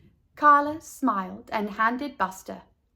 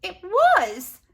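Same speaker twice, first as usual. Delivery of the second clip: in dismay; 10 semitones higher, 6 dB louder than usual. A narrator's reading. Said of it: "asked Leslie in dismay".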